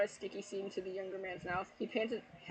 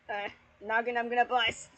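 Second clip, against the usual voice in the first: mock moaning character; 2 semitones higher, 7 dB louder than usual. Voicing character climax line.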